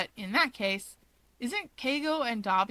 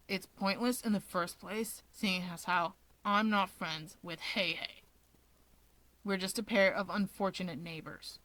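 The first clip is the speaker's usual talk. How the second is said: dismissive Dabi; 3 semitones lower, 5 dB quieter than usual. Acted.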